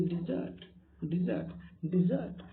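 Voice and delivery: डिजर्ट drawn out slowly, stress on the second syllable, di-ZERT; slow verb pronunciation. Shown as a demonstration. Teacher drilling the verb डिजर्ट for students, slow and stressed. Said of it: "verb में डिजर्ट बोलेंगे".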